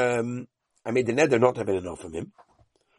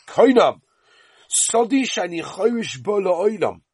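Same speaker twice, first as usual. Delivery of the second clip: a raised, higher outburst on Koinam; upset vow; 5 semitones higher, slower than usual. Retold or imitated. Angry owner swearing off his field to the borrower, raised voice. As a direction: fling out the vow in anger. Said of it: "he gets upset".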